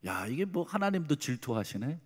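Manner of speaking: softly voiced childhood musing; inner thought. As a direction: say it under the sermon voice, as if to yourself. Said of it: "그 내가 속으로 그랬어요". (속으로 혼잣말하듯 작게)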